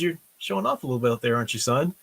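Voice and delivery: smiling dad gently teasing son; gentle teasing. Retold or imitated. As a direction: let him know you saw, with a smile. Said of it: "He just kinda smiles and says".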